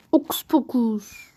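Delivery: slow whispered incantation; whispered spell. Pretend. Magic words before a shot.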